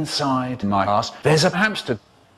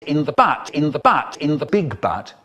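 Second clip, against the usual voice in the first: whining. Retold or imitated. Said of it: "my dad goes on for ages".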